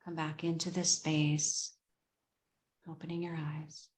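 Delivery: guided meditation. Real, not acted. Host brings group back from meditation, calm and fading. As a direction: ease them gently back, leaving long pauses.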